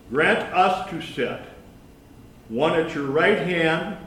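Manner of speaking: measured read-aloud of a Bible passage; deliberate public Bible reading; scripture reading. A narrator's reading. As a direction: read scripture out clearly, phrase by phrase.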